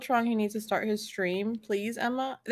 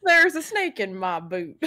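cowboy voice. Pretend. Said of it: "that is a cowboy".

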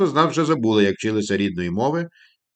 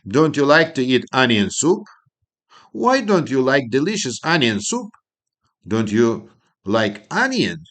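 slow, deliberate question intonation; teacher drilling intonation; negative question tune; 2 semitones higher, slower than usual. Shown as a demonstration. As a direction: model the rising negative question. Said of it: "заперечно-запитальне".

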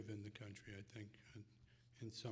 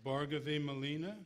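calling out names; 4 semitones higher, 5 dB louder than usual. Real, not acted. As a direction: announce each name to the hall.

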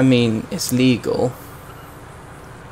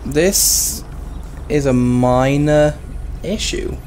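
sarcastic understatement; slower than usual. Real, not acted. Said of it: "By which I mean this is a serious issue".

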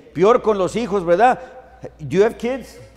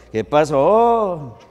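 slow, drawn-out country hello; ranchero tone; 4 dB louder, much slower than usual. Shown as a demonstration. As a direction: drag it out with the little tone. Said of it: "Tiene que haber el tonito y todo". (con el tonito ranchero, lento)

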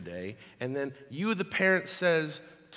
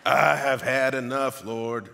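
put-on southern accent; 2 semitones lower, 5 dB louder, slower than usual. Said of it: "This is how Elijah talked".

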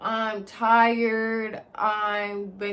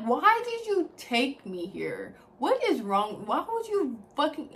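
angry retort; 4 semitones higher than usual. Retold or imitated. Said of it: "I was so fucking mad".

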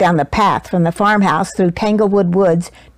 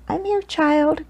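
softly; 7 semitones higher, 4 dB quieter than usual. A narrator's reading. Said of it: "Grandma said softly".

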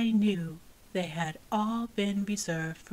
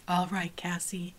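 sighing; 2 semitones lower than usual. Acted. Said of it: "she sighed".

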